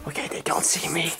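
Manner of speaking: quick hushed aside. Pretend. Hiding, whispering fast.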